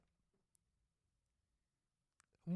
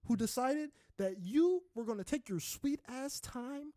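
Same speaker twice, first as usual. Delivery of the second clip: building from a firm talk to a high, loud shout; rising anger, hammed up at an imagined stranger; mock furious rant; 7 semitones higher, 3 dB louder than usual.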